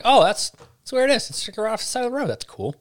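high, bright surprised exclamation; mock surprise. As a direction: act pleasantly surprised at a find. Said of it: "And you're just like".

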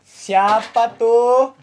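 slow, drawn-out questioning father; lightly voiced father. Father asks child who was named, slow questioning. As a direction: stretch the question like a suspicious parent.

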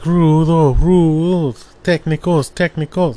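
high, drawn-out crowd chant; mom cheering at wrestling. Retold or imitated. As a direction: imitate a mother getting into lucha libre. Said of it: "My mom would get into it".

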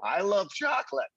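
high-pitched pretend yell at normal volume; mock yell. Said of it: "walk into a candy store and yell".

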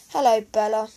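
loud, cheery hello; bright motherly welcome; bright greeting. A narrator's reading. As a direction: greet the young guest brightly. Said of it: "said Mum brightly".

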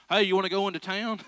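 lightly exaggerated country twang; country accent. Preacher mimicking country people's invitation to town, country accent. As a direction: lean into a Southern country accent. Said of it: "only country people say that".

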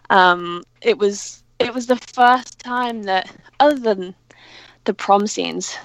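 breathless after climbing stairs; out of breath. Real, not acted. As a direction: talk while catching your breath. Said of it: "sorry, I'm so out of breath".

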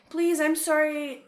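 slow, apologetic pleading; overly polite Canadian. Retold or imitated. Begging the airport lady for help, slow and apologetic. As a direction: ease out a sorry, slow and meek.

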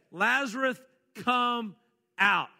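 a commanding shout toward the tomb; loud call. Acted. Retells Jesus calling Lazarus.

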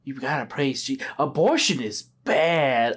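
slow, low, soft preachy sign voice. Retold or imitated. Mocking the roadside signs in Kansas, slow hushed sermon. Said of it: "there was like".

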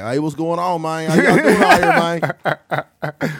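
lightly done E-40 uncle voice. Retold or imitated. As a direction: drawl it out like a Southern uncle. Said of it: "pitch it down a little bit".

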